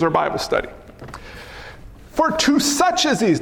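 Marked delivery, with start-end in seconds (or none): 2.1-3.4 "such" punched high within the phrase; "such" singled out in a raised pitch; stress on SUCH. Shown as a demonstration. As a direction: lean on "such", not on "these". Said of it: "not these".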